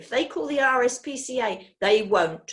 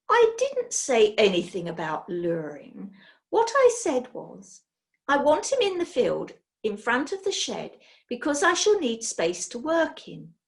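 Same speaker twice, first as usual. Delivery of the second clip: bossy witch; 3 semitones higher, 3 dB louder than usual. Acted. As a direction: hand out orders briskly. Hecky gives orders.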